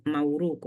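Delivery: mawuruku with W in place of B. Shown as a demonstration. Teacher rejecting a wrong plural, mawuruku said with W. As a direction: glide into a W in mawuruku. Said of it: "No, no, no".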